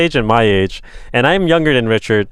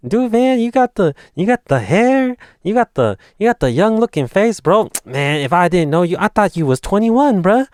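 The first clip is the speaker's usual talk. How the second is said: higher, excited mock bro voice; imitating Richard; 6 semitones higher than usual. Telling David about Richard's words, high mock bro voice. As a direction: play the hyped friend, pitched up. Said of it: "You can tell by my intonation".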